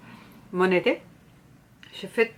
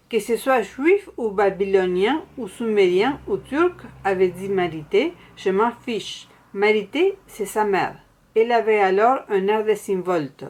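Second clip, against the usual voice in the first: animated, louder literary narration; novel reading aloud; 5 dB louder than usual. A narrator's reading. Reader shares a Québécois novel with viewers, animated story narration. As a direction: read the novel excerpt out with projection.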